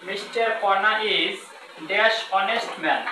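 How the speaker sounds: very slow, word by word, pausing at the blank; slow teacher dictation; slow example reading. Shown as a demonstration. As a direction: dictate the sentence slowly to the class. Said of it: "example দিলে আপনি clear হবেন".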